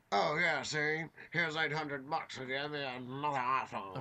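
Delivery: a hint of a tough-guy hood; gangster voice. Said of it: "gangster voice for the common man".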